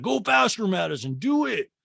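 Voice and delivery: high, stretched mock pleading; whiny six-year-old. Grown man begging Madison to pedal, high childish whine. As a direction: beg like an impatient little kid. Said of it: "just like a six-year-old to his parent".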